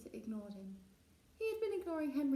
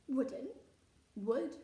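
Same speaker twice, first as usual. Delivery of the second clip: squabbling; 3 semitones higher, 6 dB louder than usual. Acted. Children's squabble, back and forth.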